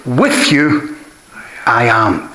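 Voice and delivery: "With you" held up, then "I am" drops; emphasis on WITH YOU. Shown as a demonstration. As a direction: lean on "With you", pause before "I am". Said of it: "That's the order of it here".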